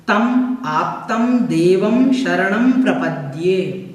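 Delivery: slow measured recitation of the word order; recited anvaya. Shown as a demonstration. Teacher recites the prose order of the verse slowly. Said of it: "अन्वय है इसका".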